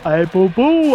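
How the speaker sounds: lightly voiced cartoon bear greeting; mild Yogi impression. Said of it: "I can do the Yogi voice though".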